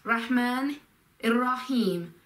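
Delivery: slow, spoken Arabic in separate pieces; measured demonstration with pauses; teaching word by word. Shown as a demonstration. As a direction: say each word apart for a learner. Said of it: "link all the words together".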